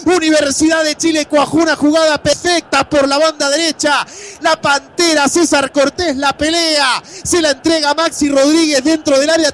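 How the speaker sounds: high, excited goal recap; breakneck goal commentary. Real, not acted. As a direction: rattle off the play still thrilled. Replay of the goal. (relato de gol acelerado)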